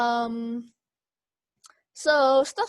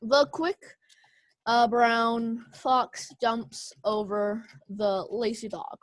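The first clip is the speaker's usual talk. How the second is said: slow reading; slower than usual. Shown as a demonstration. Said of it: "you can say something like this".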